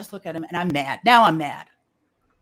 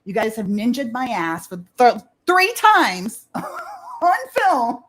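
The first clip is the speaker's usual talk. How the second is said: words break into a slow laugh; laughing complaint; 4 semitones higher, 5 dB louder, slower than usual. Retold or imitated. Telling friends about the cops, laughing hard. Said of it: "I was like".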